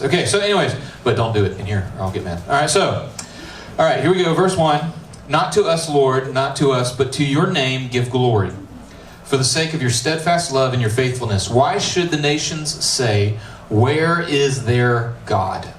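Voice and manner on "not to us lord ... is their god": slow, measured Bible reading; scripture reading. Acted. Pastor reading the psalm to his youth group, measured. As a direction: read the psalm aloud with weight.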